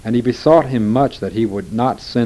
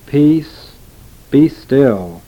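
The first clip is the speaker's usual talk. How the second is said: louder, higher command to the sea; 5 semitones higher, 6 dB louder, much slower than usual. Acted. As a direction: order the wind to stop. Jesus commands the storm.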